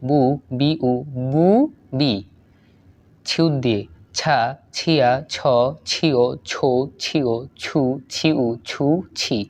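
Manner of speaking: syllable-by-syllable recitation, evenly spaced; reading drill. Shown as a demonstration. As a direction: read out the syllable chart in a steady rhythm. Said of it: "same". (বানান পড়ার মতো ছন্দে ছন্দে পড়া)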